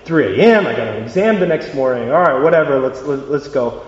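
reluctant grumble giving in; half-hearted, put-upon agreement; begrudging. Acted. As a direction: talk yourself grudgingly into a favour. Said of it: "he'd do it begrudgingly".

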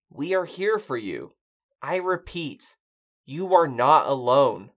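measured radio announcement; formal broadcast message. Acted. Man sending nightly message to survivors, formal. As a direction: recite it evenly to unseen survivors.

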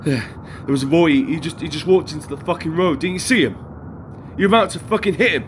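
panicked. Acted. Panicked about boy in road.

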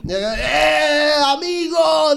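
put-on high, shouted Arabic-accented English; Arab bartender voice. Bartender greets the drunk tourists, shouted high Arab accent. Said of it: "era como árabe".

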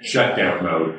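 low, flat machine announcement; droning computer shutting down; robot voice. Pretend.

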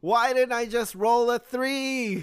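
high, slow theatrical wail; mock lament. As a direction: ham up the regret.

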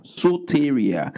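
Soteria spoken slowly, so-te-ri-a, each syllable clear; Greek word said slowly. Shown as a demonstration. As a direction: spell it out by sound, Soteria. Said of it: "from the Greek word soteria".

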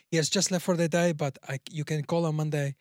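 lightly put-on French accent; mock French accent, politely explaining; French receptionist. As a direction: imitate a French receptionist on the phone. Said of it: "she clearly sounded French".

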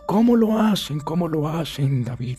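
loud, high, exaggerated whiny asking; mocking the viewer's question. Viewer pleading to David, loud mock whine. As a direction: ham up the confused viewer begging David for answers. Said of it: "tú te estarás preguntando".

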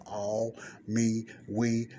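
"all", "me", "we" each stressed separately; emphasis on each word. Shown as a demonstration. Teacher showing listeners how to read scripture, stressing "all", "me", "we". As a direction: punch "all", then "me", then "we". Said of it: "Put emphasis on the words now when I'm reading".

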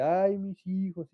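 slow mock wail of a weeping ghost; La Llorona wail. Recorded ghost crying for her children, slow mock wail. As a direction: drag it out like a hammed-up ghost. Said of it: "o la de La Llorona".

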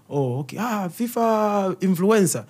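a hint of a parent drawling in awe; mock impressed parent. Parents marvelling at their son the influencer. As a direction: stretch it out, half amazed. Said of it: "that's when they believe now".

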